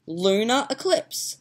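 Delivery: slow, drawn-out Australian "Luna eclipse"; Australian accent. Shown as a demonstration. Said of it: "lunar in an Australian accent".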